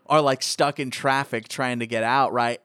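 ordinary talk, nothing marked

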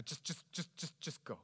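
faltering, near-silent repeat; broken whisper. Retold or imitated. Someone at the end of their rope, barely audible. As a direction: stammer it out, spent. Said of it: "you just go".

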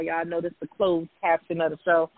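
low, sultry sexy voice; dropped into a sultry purr. Pretend. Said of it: "That's my sexy voice".

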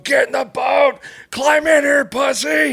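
imitated dad's high, loud shout; full-voiced mock screaming command; retold screaming. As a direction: yell the order as if over rapids. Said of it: "He's fucking screaming at me".

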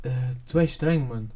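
put-on Brazilian Portuguese accent. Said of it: "sotaque brasileiro com voz de português".

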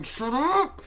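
hammed-up mom shutting the kid up; imitating mom snapping. Mom in the store silencing the screaming sister, mock shout. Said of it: "my mom would be going".

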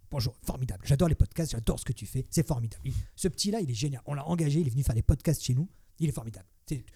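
light gushing boss impression; lightly voiced flattering tycoon; imitating Bolloré. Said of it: "Il parle comme ça".

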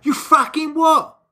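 half-joking disbelief; mock outrage. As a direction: act offended, drawn out. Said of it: "she'd be like".

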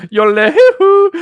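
hammed-up booming mountain voice; lightly mock a giant mountain voice; rumbling mountain voice. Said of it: "you're like".

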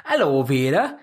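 put-on Hello, Vera in a broad northern accent. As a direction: greet like a cheery northerner. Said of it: "You'd do that odd northern accent".

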